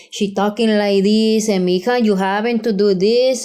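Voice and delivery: put-on Mexican mom accent; broken-English Mexican accent. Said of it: "I can do the accent really well".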